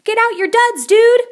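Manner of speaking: high, loud urgent shout. Acted. Don Diego urging Scopito to suit up, high shout. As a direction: hurry them up.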